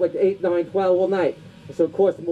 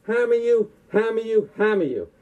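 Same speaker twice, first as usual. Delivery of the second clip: hammed-up dubbed kung fu film voice, higher; kung fu movie villain; 4 semitones higher than usual. Comic sketch parodying a dubbed kung fu film, hammed-up villain voice. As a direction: ham it up like a badly dubbed martial arts movie.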